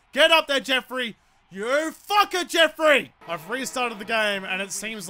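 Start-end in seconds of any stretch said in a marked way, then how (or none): 0.1-3.1 cheering on. Real, not acted. Urging player Jeffrey forward.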